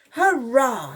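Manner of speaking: high, loud hurrah; shouted cheer. A narrator's reading. Soldiers celebrating the last hit, shouted. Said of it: "shouted the soldiers".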